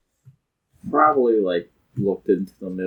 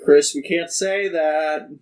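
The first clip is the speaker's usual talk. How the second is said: laughing mock scold; 7 semitones higher than usual. Real, not acted.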